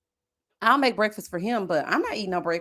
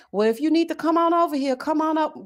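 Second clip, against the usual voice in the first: higher-pitched imitation of grandma; grandma's invitation; 6 semitones higher than usual. Grandma inviting granddaughter over, lightly imitated higher voice. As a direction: lift the pitch for a coaxing invite. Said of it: "She gonna say".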